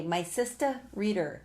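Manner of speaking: mock New York "Reader" with no r sound in the middle; teasing New York accent, lightly done; a hint of New York accent on "sister, Reader"; imitating his New York accent. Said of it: "I always tease him".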